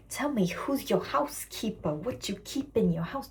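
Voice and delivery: lightly mimicked viral audio clip; TikTok sound. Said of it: "that sound on TikTok that's like".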